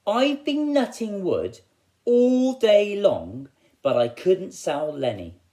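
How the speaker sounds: high, slow, drawn-out woodcutter voice; weary woodcutter. Acted. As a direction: moan it like a worn-out woodcutter who worked all day. Woodcutter complains, voiced in story.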